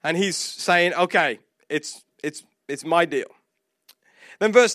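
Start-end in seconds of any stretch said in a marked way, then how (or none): 0.9-3.3 low, soft, halting admission; humbled. Acted. Jonah found out by the sailors, humbled and quiet. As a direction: own up quietly, with small hesitations. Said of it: "going through a moment of humility".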